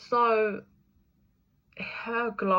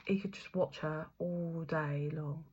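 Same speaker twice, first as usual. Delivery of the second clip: softly whispered aside; 2 semitones lower, 7 dB quieter than usual. Real, not acted. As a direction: breathe it out in a whisper, softer. Dreamy aside about watching her.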